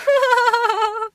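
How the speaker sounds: high bright burst of laughter. Real, not acted. Amused at her own wording: high laugh. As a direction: laugh at yourself.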